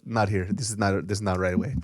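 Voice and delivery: mock Korean accent, awkward refusal; imitated Korean accent. Storyteller imitates a Korean guy refusing, Korean accent.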